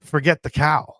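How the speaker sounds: a loud "Ugh", then give up on it; fed-up groan. Retold or imitated. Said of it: "And finally, I just go".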